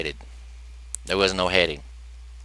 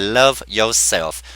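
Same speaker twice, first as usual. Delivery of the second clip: slow sincere advice; 3 dB louder, much slower than usual. Retold or imitated. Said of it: "I said".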